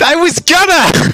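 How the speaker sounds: loud yelling. Answering another speaker who asks to be told when ready: yelling. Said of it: "I didn't mean to yell".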